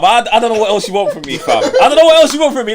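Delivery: exasperated laughing plea; laughing protest. Real, not acted.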